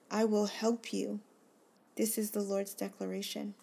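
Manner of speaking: earnest, deliberate reading with heavy pauses; devotional scripture reading. Acted. A reader rereading God's words to her listener, earnest reading. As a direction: lean on each promise as you read it. Rereads passage in another version.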